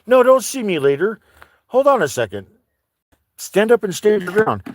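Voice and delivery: high, loud call to the dogs; shouting. Real, not acted. Owner shouting at his dog to stand its ground, loud and high. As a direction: yell it out to the dog.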